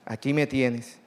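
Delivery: a hint of Jesus speaking gently; tender plain voicing. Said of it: "Mira qué lindo".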